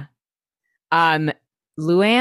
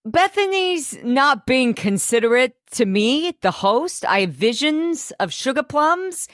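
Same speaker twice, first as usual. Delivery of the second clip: imitating Dorinda; 7 semitones higher than usual. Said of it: "Dorinda's like".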